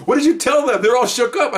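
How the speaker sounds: very high-pitched, excited retelling; high, mock-astonished questioning; amused incredulous boss. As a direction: imitate a boss tickled by the fuss. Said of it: "he just starts laughing".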